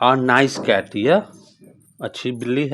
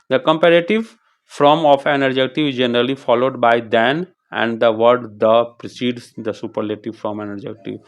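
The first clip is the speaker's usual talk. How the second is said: slow textbook reading; much slower than usual. Shown as a demonstration. Teacher reads rule text slowly.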